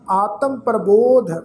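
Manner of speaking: measured ਆਤਮ ਪ੍ਰਬੋਧ, drawn ਪ੍ਰਬੋਧ then a stop; pause after phrase. Shown as a demonstration. Teacher shows where to rest, pause after ਪ੍ਰਬੋਧ. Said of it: "ਪ੍ਰਬੋਧ ਸ਼ਬਦ ਤੋਂ ਬਾਅਦ ਵਿਸ਼ਰਾਮ ਚਿੰਨ੍ਹ".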